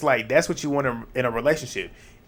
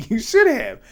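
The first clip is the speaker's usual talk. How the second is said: laughing it out, pitched up high; laughing repeat, pitched high; 13 semitones higher, 4 dB louder than usual. Real, not acted. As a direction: repeat "should" through a laugh, voice jumping up. Repeats the line through a laugh.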